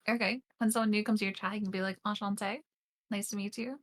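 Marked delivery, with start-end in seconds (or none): 2.1-3.8 a quiet, careful Enchanté with French vowels; shy little French greeting said softly; French on request. Shown as a demonstration. Asked for some French on stream, she offers a soft greeting. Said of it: "hit me with a little bit of French".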